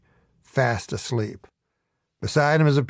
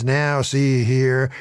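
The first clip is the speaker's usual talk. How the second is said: pompous protest; much slower than usual. Retold or imitated. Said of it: "starts in with his".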